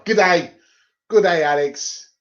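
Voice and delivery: put-on Aussie accent slipping into Scottish; botched Aussie accent. Greeting Alex in a failed Aussie, Scottish-sounding accent. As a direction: try Australian, land nearer Scottish. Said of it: "that was a Scottish accent, wasn't it?".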